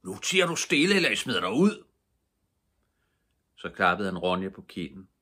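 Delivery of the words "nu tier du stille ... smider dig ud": put-on loud, high roar at the old man; roaring threat. A narrator's reading. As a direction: bellow it, furious chief. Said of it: "brølede Mattis".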